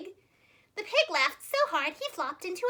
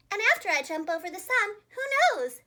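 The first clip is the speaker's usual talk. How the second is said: eager; 5 semitones higher, 6 dB louder than usual. A narrator's reading. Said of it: "said Missus Mooley".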